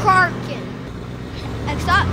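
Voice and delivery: bus driver call-out; announcer voice. Pretend. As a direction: call the next stop like a conductor. Mock announcer repeated.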